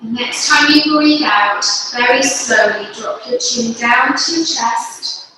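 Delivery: calm, unhurried instruction with long pauses; guided yoga. Real, not acted. Yoga teacher leading parents and babies through breathing, guided yoga. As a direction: guide them gently through each breath, phrase by phrase.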